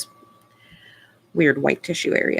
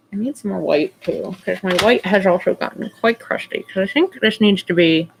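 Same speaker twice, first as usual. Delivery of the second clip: talking with a brush in mouth; talking around a paintbrush; 3 dB louder than usual. Real, not acted. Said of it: "sorry, my brush is in my mouth, which is why I'm talking funny".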